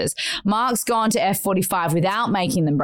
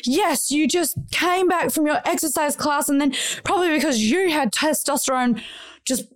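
grumpy complaining; 5 semitones higher than usual. Retold or imitated. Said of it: "Are you actually legitimately grumpy at me?".

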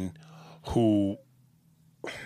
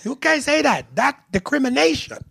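very high mocking Asian accent. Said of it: "And Anthony goes".

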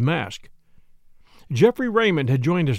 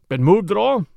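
sharp, louder question; sharply; 4 semitones higher, 5 dB louder than usual. Acted. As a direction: snap the question out like a police inspector. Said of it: "he asked sharply".

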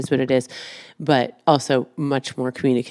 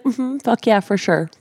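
higher, mock-eager agreement; sarcastic agreement; 7 semitones higher than usual. Wife retelling her sarcastic reply to the therapist, mocking agreement. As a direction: play the sarcastic yes. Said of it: "I was like".

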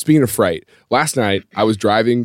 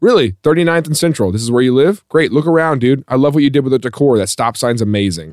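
fed-up sarcasm; 3 semitones higher, 4 dB louder than usual. Retold or imitated. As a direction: feign admiration, thoroughly over it. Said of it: "E M S is over it".

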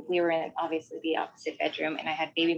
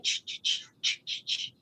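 crib rattle noise; 5 dB quieter than usual. Retold or imitated. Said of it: "you hear the crib start shaking again".

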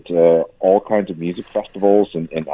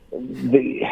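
higher-pitched false starts with long pauses; stuttering, lost for words; 5 semitones higher than usual. Real, not acted. Host hearing his exasperation at celebrity advice, stuttering. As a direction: stammer and break off, unable to find words. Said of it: "I'm stuttering because I, I just have no words".

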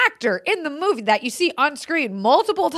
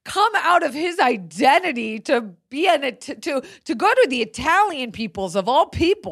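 incredulous what; 4 semitones higher than usual. Retold or imitated. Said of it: "and I went".

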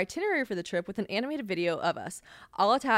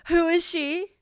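outraged question; 9 semitones higher, 5 dB louder, slower than usual. Real, not acted. Outraged at her drawn character.

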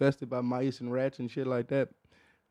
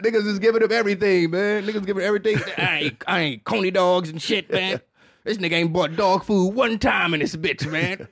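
dog voice; 4 semitones higher than usual. Retold or imitated. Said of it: "That's my dog voice".

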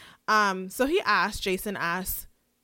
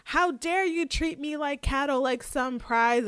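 mock yelling; 6 semitones higher than usual. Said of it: "she starts yelling at her dad".

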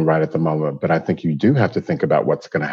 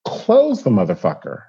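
blunt order; 3 semitones higher than usual. Retold or imitated. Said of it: "She said".

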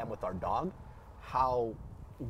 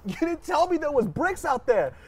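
higher, slow, indignant complaint; retold complaint; 12 semitones higher, 5 dB louder than usual. Complaining to his dad after falling, higher slow indignant. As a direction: make it an injured protest. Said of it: "I was like".

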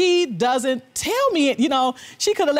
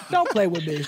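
laughing through the words; nervous chuckle, then denial; 3 semitones lower than usual. Real, not acted. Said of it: "she's doing a nervous laugh".

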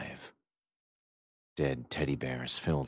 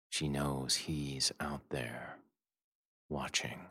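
hushed whisper; 5 dB quieter, slower than usual. A narrator's reading. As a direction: breathe it fearfully. Tense story moment.

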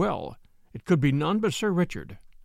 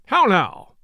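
loud, quivering burst of anger; quivering angry voice; 3 semitones higher, 7 dB louder than usual. A narrator's reading. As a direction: cut in, shaking with rage. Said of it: "in a quivering voice".

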